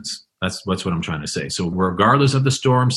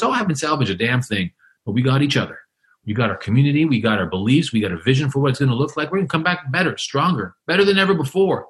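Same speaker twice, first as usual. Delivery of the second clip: higher, rousing, rallying; going on excitedly; 4 semitones higher, faster than usual. Retold or imitated. Survivor vowing to the reporter to rebuild, excited and higher. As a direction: pump up the comeback. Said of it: "And he's going on".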